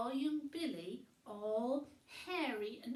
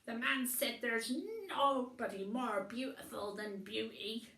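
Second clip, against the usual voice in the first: happy grunt; 6 dB louder than usual. Acted. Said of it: "he grunted happily".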